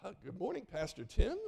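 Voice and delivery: "Pastor Tim" swinging up at the end; chirpy greeting that climbs on "Tim"; upbeat, rising intonation. Retold or imitated. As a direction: imitate a winsome woman, "Tim" lifted like a question. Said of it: "goes up at the end of sentences".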